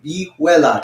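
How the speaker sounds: vihuela as "bee-WEH-la"; Spanish pronunciation. Shown as a demonstration. Teacher names the spelled word, Spanish pronunciation. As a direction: model "vihuela" in Spanish, middle syllable stressed. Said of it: "Try to say that".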